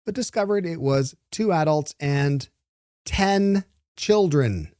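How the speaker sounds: measured newsreader delivery; presenter reading copy aloud; news read. Real, not acted. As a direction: read the story out with deliberate pauses. Host reads out the news story.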